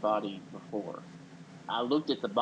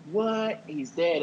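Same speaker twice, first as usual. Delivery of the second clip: high, louder mock what of disbelief; retold stunned reaction, pitched way up; 6 semitones higher, 3 dB louder, much slower than usual. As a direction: squeak out an imitated shocked what. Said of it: "Not so much surprised".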